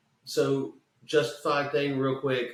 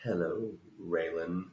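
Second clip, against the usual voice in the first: Goggins giving the fan the line; Walton Goggins impression; 6 semitones lower, 6 dB quieter than usual. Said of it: "Walton Goggins goes".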